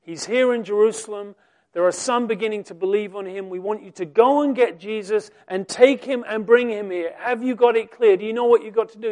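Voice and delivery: loud, commanding priestly voice; stern priests' order. Acted. Chief priests ordering officers, loud and commanding.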